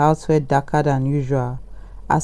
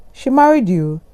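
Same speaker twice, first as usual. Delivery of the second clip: gasped question; 6 semitones higher than usual. A narrator's reading. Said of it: "the woman gasped".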